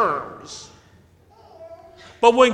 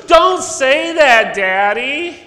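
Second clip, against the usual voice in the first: put-on child yelling; 6 semitones higher, 5 dB louder, slower than usual. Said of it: "child keeps protesting".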